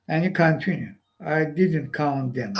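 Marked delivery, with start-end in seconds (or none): 1.2-2.5 words broken by a light laugh; laughing quote. Retold or imitated. Speaker imitates the laughing soldier, chuckling. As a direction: chuckle through "I didn't count them". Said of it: "And he laughing".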